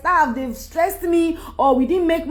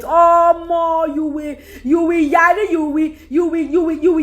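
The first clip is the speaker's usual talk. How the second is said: frustrated outburst; 2 semitones higher than usual. Real, not acted. Vlogger venting about stress, exasperated shout. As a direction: blurt it out, fed up.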